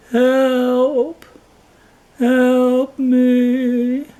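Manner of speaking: high, loud cry for help, voice far off. Acted. Starving lion calls to the buffaloes for help, loud and high. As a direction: call out weakly but loud for rescue.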